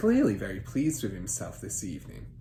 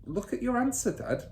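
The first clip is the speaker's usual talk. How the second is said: gently; 13 semitones higher than usual. Acted. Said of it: "Matilda said gently".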